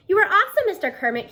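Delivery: high, loud delighted cheer; exclaiming. Acted. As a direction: burst out with admiration. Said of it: "Kiana exclaims".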